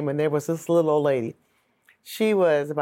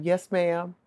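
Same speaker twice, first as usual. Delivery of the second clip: put-on good girl voice. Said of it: "in my good girl voice".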